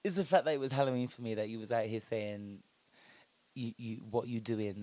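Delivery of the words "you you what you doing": mocking imitation. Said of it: "like that".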